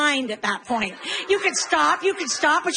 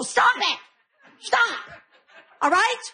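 mock yell; 7 semitones higher than usual. Mom yelling at fighting kids.

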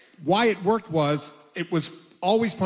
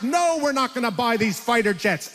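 higher, mock-shouted refusal; blurting on stage; 6 semitones higher than usual. Arguing with a caller mid-show, higher mock shout. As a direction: snap it out like a caller interrupted. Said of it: "And I'm like".

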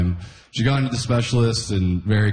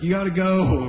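much higher, pushy parent urging; nagging dad Joseph; 10 semitones higher than usual. Retold or imitated. Joseph hurrying young Jesus, nagging. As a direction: hurry the kid along. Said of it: "Be like".

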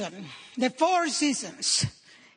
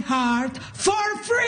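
slow, higher shout of victory; triumphant retort; 6 semitones higher, slower than usual. Retold or imitated. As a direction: crow the punchline in triumph.

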